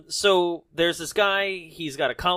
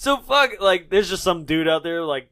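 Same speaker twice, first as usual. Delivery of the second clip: ordinary delivery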